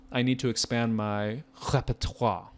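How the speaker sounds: a deliberately bad French accent on repertoire; terrible French accent. Shown as a demonstration. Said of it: "so I can practice my terrible French accent".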